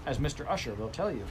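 the strict housekeeper complaining at full volume; indignant housekeeper. Acted. The housekeeper complains to the grandmother, loud and indignant.

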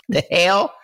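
startled high exclamation; shocked. Retold or imitated. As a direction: blurt it out in disbelief. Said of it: "you feel like".

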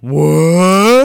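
loud, high startled cry; shocked what. Retold or imitated. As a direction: blurt it out in disbelief. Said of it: "Pierce Brosnan's like".

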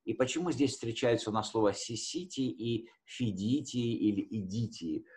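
ordinary talk

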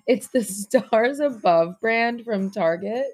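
slow, laughing self-correction. Real, not acted. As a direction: laugh through the corrected brand name. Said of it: "no, no, no".

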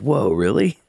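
high, impressed whoa; imitating amazed surprise; surprised. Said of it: "And Gruff's like".

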